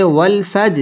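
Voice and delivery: ফাজ with a bouncing release on the final j; echoing j at the end of ফাজ; qalqalah bounce. Shown as a demonstration. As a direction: push off the last consonant of ফাজ. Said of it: "ধাক্কা দিয়ে পড়তে হবে".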